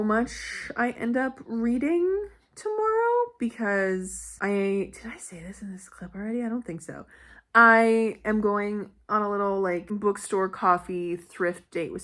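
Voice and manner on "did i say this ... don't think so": whispered aside. Real, not acted.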